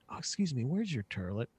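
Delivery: polite question, oi turned to er in "turlet"; toilet said "turlet". Shown as a demonstration. Comedian politely asking for the bathroom, toilet as "turlet". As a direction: softly ask with toilet as "turlet". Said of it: "I say turlet".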